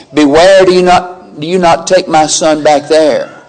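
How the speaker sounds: Abraham's firm warning, with a little laugh; emphatic command. Acted. Abraham warning his servant, an emphatic command. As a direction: insist hard on Beware. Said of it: "Abraham was very emphatic".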